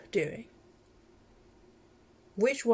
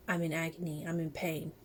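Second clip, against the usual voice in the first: plant voice; 4 semitones lower, 6 dB quieter than usual. Retold or imitated. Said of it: "in a way that would tell me".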